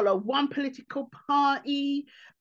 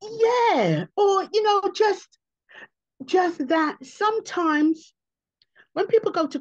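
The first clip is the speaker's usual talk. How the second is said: emphatic loud; 9 semitones higher, 6 dB louder, slower than usual. Real, not acted. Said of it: "emphatic restart".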